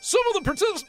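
high, hammy Scottish brogue; sloppy, over-the-top Scottish accent; bad Scottish accent. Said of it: "I'm not gonna do a Scottish accent".

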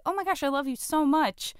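high-pitched imitation of a gushing friend; lightly hammed-up fondness; mock gushing.

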